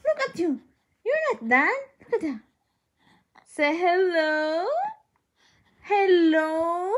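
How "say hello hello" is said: sweet parent-to-infant coaxing. Real, not acted. Coaxing a baby to talk.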